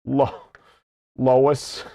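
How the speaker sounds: low cartoon husband voice; Peter. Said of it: "Oh, Lois".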